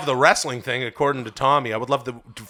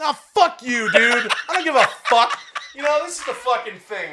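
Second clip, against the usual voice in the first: mock outburst; 9 semitones higher than usual. Mock outburst after being teased.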